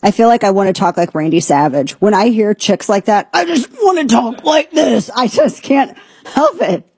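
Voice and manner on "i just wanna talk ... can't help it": put-on high, creaky valley-girl fry; vocal fry imitation. Shown as a demonstration. Host imitating vocal fry he hates. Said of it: "I'm gonna have to talk like this".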